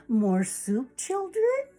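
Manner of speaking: lilting question, jumping high at the end; mother hen's offer. Acted. Mother hen serving her children, lilting high question.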